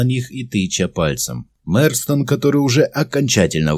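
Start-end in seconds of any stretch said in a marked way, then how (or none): none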